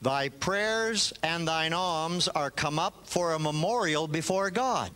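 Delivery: ordinary talk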